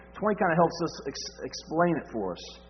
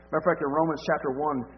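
usual speaking voice

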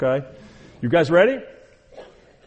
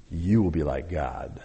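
much lower and softer, a coaxing hush; seductive serpent; 9 semitones lower, 9 dB quieter than usual. Acted. The serpent luring Eve with the lie, low and hushed. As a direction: breathe the lie into Eve's ear.

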